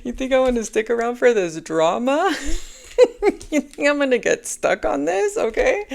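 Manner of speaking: loud, high, laughing brush-off; carefree dismissal. Retold or imitated. Target laughing off the stalkers' drama, loud and high.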